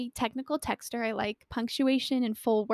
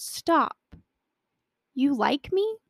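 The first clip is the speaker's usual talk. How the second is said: retold surprise; 4 semitones higher, slower than usual. His startled reply, acted out.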